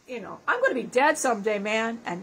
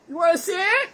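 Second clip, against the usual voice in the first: mock eager offer; 6 semitones higher, 4 dB louder than usual. Drunk offer retold.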